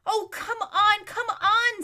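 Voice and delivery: high, loud, laughing urge; impatient urging. A narrator's reading. Aravis impatiently hurries the sleepy horses. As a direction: hurry them along.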